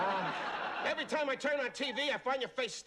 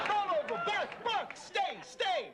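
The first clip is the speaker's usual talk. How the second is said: high mock commands to a dog; high teasing dog commands; dog-owner commands; 9 semitones higher, slower than usual. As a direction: order him about like a pet.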